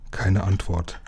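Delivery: plain reading voice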